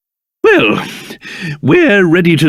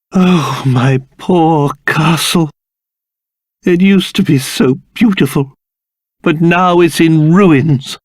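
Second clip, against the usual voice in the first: mournful lament; 5 semitones lower than usual. Acted. King seeing his castle in ruins, mournful. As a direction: grieve over what was lost.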